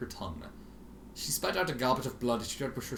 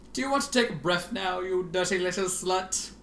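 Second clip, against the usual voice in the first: simpering; 7 semitones higher, 3 dB louder than usual. Acted. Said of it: "asked in a simpering tone".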